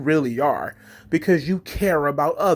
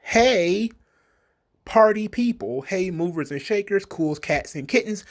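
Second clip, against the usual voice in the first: a hint of a hammed-up high announcer; lightly voiced cheesy greeter; mock party greeting; 4 semitones higher than usual. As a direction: hype it up mockingly. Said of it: "some of the things that were suggested".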